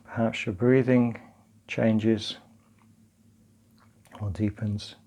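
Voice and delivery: calm, unhurried practice guidance; guided meditation. Acted. Teacher leading partners through grounding and breathing, calm guided meditation. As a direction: guide them gently through it, leaving long pauses.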